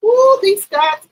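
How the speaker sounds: slow drawn-out teasing ooh. Real, not acted. Streamer teasing the show's men, slow drawn-out. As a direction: stretch it out, teasing.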